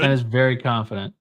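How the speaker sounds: talking with a clothespin pinching the nose; nose clipped shut, clothespin voice. Real, not acted. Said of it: "The clothespin on your nose".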